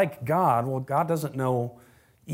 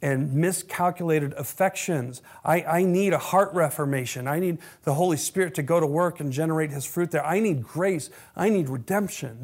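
lowered, pleading prayer voice; humble confession. Shown as a demonstration. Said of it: "This is what authenticity sounds like".

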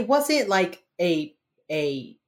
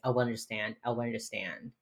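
guilty; 3 semitones lower, 9 dB quieter than usual. Retold or imitated. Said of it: "He's, like, clearly guilty".

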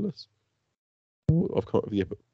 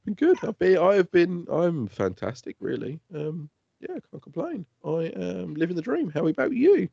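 mock cheerful; 6 semitones higher than usual.

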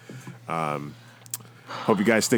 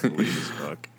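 whispering; 4 dB quieter, slower than usual. Real, not acted. Whispered aside to co-host.

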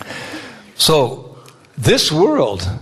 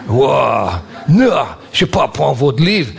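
put-on French accent. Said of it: "the French don't like Americans".

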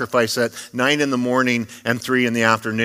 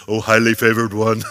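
a hint of an awkward stranger's "Oh, highly favored one"; mock awkward greeting; 2 semitones lower than usual. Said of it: "see a teenager".

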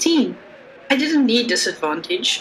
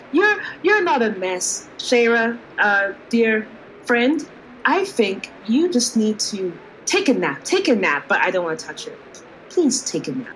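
polite. Acted. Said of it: "politely say in her general direction".

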